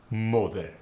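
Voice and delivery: moth with a short staccato o; clipped Arabic-accented moth. Shown as a demonstration. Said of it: "coffee and moth go to".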